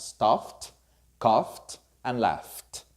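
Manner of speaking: "stuffed", "coughed", "laughed" ending in F plus T. Shown as a demonstration. Teacher models F words in past tense, ED as T. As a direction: finish "stuffed", "coughed", "laughed" on a separate crisp T. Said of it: "always sounds like a T".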